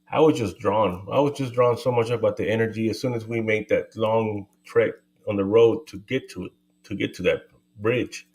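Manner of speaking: winded, catching breath between words. Real, not acted. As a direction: talk while still out of breath. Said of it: "I'm out of breath 'cause I was running".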